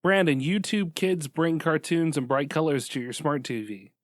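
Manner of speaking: forceful, emphatic announcement; insistent, punchy delivery. Real, not acted. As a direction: push each phrase straight at the listener. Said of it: "why are you saying it so forcefully".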